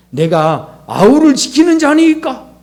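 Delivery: Cain's snide reply, imitated with a sneer; insolent retort. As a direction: toss it back like a rude brat. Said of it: "재수 없다고 그럽니다".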